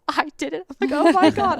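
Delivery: high-pitched retold elation; freaking out. Hunter retelling the moment after the shot, freaking out. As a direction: relive the disbelief, voice jumping up. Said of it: "I'm, like, freaking out".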